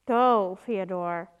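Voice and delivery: loud call across the room to the servant; sharp call. Acted. Calling the servant away.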